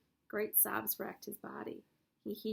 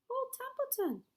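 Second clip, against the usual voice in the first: smug self-answer; 4 dB louder than usual. Acted. Rat answering his own question.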